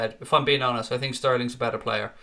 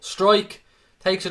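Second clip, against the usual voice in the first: excited call; 4 semitones higher, 3 dB louder, slower than usual. Real, not acted. Calling a shot live.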